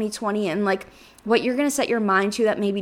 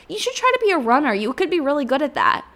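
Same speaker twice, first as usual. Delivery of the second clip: imagined encouragement; 4 semitones higher than usual. Retold or imitated. Imagined voice urging her to run.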